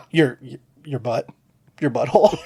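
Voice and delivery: said through leftover laughter; laughing retelling. Retold or imitated. Host repeating the line to his cohost, laughing. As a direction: repeat the punchline while cracking up. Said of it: "I lost my shit over".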